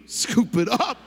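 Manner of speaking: high, loud careless dude voice; careless guy. Retold or imitated. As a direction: scoop it up like you don't care. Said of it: "Fellas, what do we do?".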